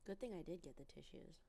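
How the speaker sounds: stuffy, sniffling voice with a cold; sniffly. Real, not acted. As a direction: talk through the sniffles. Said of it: "The sniffles are starting".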